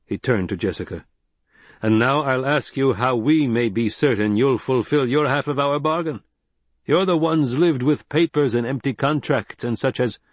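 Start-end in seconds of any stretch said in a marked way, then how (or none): 1.8-10.2 firm, proud desert chieftain, higher and louder; stern Fremen leader. Acted. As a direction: lay down the law like a tribal chief. Stilgar questions Jessica.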